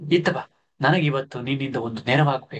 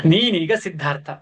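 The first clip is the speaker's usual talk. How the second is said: happily; 6 semitones higher, faster than usual. Acted. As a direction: brighten up with joy. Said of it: "ಸಂತಸದಿಂದ ಚೆನ್ನ". (ಸಂತಸದ ದನಿ)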